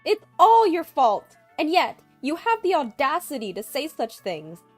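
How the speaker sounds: high, very loud screaming rage; yelling loudly. A narrator's reading. Mother-in-law yelling at Amy over the phone, screaming. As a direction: yell each accusation at full force. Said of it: "just yelling loudly while crying".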